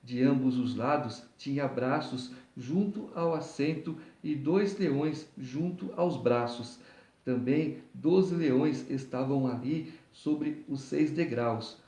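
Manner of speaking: measured, deliberate Bible reading; scripture reading. Acted. Preacher reading the chapter to listeners, formal scripture reading. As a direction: read the chapter aloud in careful phrases.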